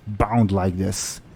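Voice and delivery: lightly voiced orc captive making a threat; threatening orc. Bound orc captain threatens her rescuers, mildly menacing orc voice. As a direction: threaten them as a bound orc, slowing at the end. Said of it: "and she says".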